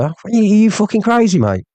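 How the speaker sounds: high-pitched, incredulous challenge; incredulous outrage. Real, not acted. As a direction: ask it high, in real disbelief. Angry rebuke of the streamer.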